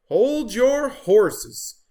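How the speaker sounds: high, loud, slow horsey call; Horse voice. Acted. Horse stopping Turkey, slow loud call. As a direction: draw it out like a horse.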